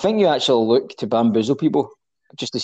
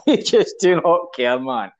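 laughing; 5 semitones higher than usual. Real, not acted. Laughing at friend's random words.

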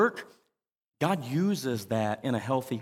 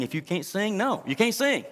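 mock mean; 5 semitones higher than usual. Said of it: "Sorry, I'm just gonna be mean".

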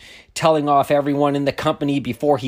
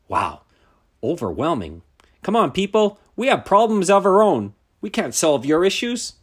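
mock exasperation; 6 semitones higher, 4 dB louder than usual. Mock complaint about HR burden.

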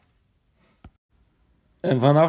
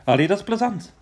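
delighted; 9 semitones higher, 5 dB louder, much faster than usual. Acted. Paris delighted.

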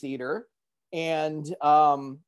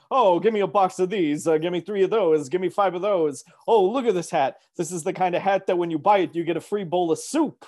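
louder goofy customer voice, rattling off orders; goofy movie quote; 4 dB louder than usual. Retold or imitated. Joking with the store guy, goofy louder movie-quote voice. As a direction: play the goofy shopper hamming it up. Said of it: "I was in a goofy mood".

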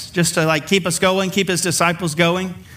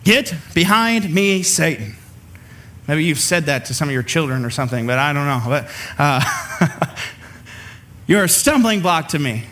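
stern rebuke; 3 semitones lower than usual. Retold or imitated. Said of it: "the most frightening words Peter ever heard".

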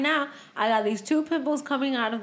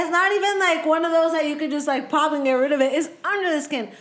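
excited complaint; 5 semitones higher, 3 dB louder than usual. Real, not acted. Continued pimple complaint.

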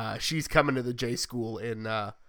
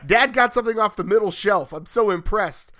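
higher, louder mock awe; lightly voiced little kid amazed by dad; impressed young son; 6 semitones higher, 9 dB louder than usual. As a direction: play up a child's big admiration. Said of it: "So, like, he's like".

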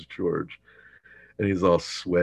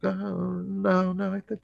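high-pitched; 13 semitones higher than usual. Retold or imitated. Jerry hurriedly agrees.

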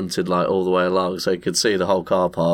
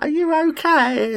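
put-on high, concerned old lady; a lightly voiced elderly lady asking gently; imitating a kind old lady.

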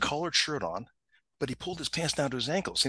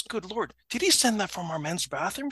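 high, incredulous question; shocked disbelief; 7 semitones higher than usual. Retold or imitated. Supervisor recognising the office bathroom tiles, shocked disbelief. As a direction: act out an appalled realisation.

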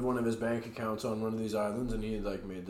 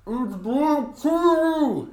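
high mock exclamation; 11 semitones higher, much slower than usual.

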